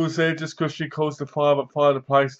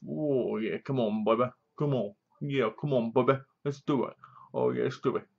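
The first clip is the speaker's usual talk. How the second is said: soft, breathy-free mock lover's coaxing, quieter; hammed-up seductive coaxing, softer; mock sultry moaning; 6 dB quieter than usual. Imagining the missing bush scene, mock sultry coaxing.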